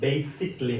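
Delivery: "basically" as BAY-sik-lee; "basically" in three syllables; silent middle vowel. Shown as a demonstration. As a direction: drop the A in "basically". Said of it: "এটা উজ্জ্ব থাকবে".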